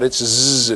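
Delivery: "z" held as a buzzing zzz; buzzed z sound. Shown as a demonstration. Teacher showing where the sound occurs, buzzed "z". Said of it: "it's there".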